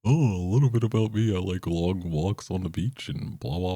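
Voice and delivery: high, bright mock intro voice; cheesy dating profile voice. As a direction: read it like a corny dating ad. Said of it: "why does this sound so awkward".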